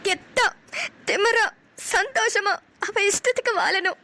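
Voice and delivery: proud, slow, cheerful chant; said with a smile. Acted. Daughter redoes her motto smiling as mother asked. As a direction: say it boldly and happily this time. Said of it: "நல்லா சிரிச்சுட்டே சொல்லு".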